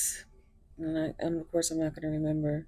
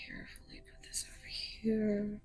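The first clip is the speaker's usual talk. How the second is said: whispering; 3 semitones higher, 7 dB quieter than usual. Real, not acted. Whispered aside while arranging cards.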